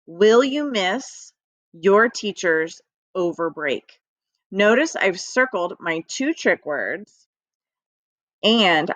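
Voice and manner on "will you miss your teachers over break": slow, even choral read of "Will you miss your teachers over break?". Shown as a demonstration. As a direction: read it slowly, together with the class. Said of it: "Read that with me".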